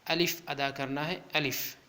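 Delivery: الف said short, "alif"; unstretched. Shown as a demonstration. Teacher showing learners the letter, short الف. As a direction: keep الف brief, no drawn vowel. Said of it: "اس کو زیادہ نہیں کھینچنا".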